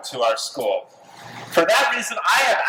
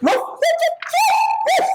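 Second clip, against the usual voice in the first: lightly voiced dog barks, woof after woof; dog barking; 11 semitones higher than usual. Snoopy candidate barking his campaign speech, lightly voiced dog. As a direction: bark like a dog giving a speech. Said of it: "delivering his speech in Portuguese".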